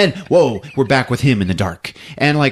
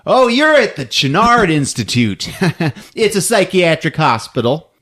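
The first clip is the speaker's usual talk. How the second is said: detective voice; 5 semitones higher than usual. Retold or imitated. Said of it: "She's like / he goes".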